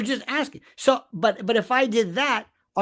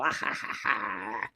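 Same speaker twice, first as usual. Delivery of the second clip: mock laugh; 12 semitones lower, 10 dB quieter than usual. Mimicking the fake chat partner.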